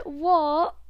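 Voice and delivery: loud shocked WHAT, read as if in capitals; all-caps what. Retold or imitated. Reading a friend's all-caps text aloud, loud shocked shout. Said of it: "In all capitals".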